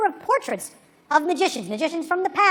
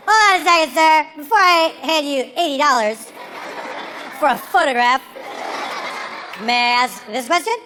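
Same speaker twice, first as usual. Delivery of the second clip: loud mock politeness; 3 dB louder than usual. Grilling the photo seller.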